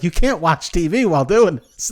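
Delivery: imitating an irritated telling-off; mock yell at someone slacking; mild retold yell. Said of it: "he yelled at her".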